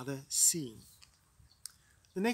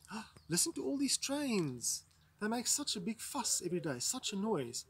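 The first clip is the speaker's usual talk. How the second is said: higher-pitched acted complaint; stage character; 4 semitones higher than usual. Teacher voicing a character on stage hearing trains, acted complaint. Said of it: "a character on stage saying".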